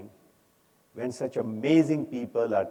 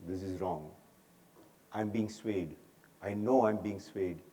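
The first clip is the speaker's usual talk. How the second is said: soft, lower voice of self-awareness; quiet inner realization; 4 semitones lower, 7 dB quieter than usual. Acted. Self-awareness teaching you you're being swayed, quiet inner voice. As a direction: say it softly, as if noting it to yourself.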